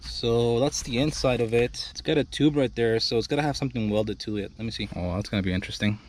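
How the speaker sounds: out of breath, panting between words; winded after wrestling the armrest; heavy breathing. Real, not acted. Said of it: "excuse my heavy breathing".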